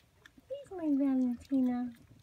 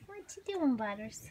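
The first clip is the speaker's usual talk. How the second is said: cooing. Real, not acted. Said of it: "repeated question".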